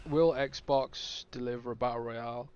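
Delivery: choking while talking; words caught in a choking throat. Real, not acted. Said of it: "Oh, sorry, I'm choking".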